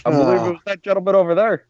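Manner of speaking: lightly voiced Obama egging someone on; mock Obama voice. Voicing Obama urging a fight.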